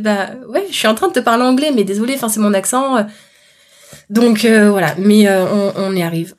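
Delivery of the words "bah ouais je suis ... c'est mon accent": higher, defensive mock exasperation; exasperated protest. Guest doubts her English, she protests higher, exasperated. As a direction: huff back that you are speaking English. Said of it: "t'es en mode".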